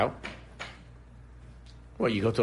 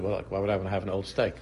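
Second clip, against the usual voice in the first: laughing; 3 semitones lower, 4 dB quieter, faster than usual. Retold or imitated. Retold joke to the rich host.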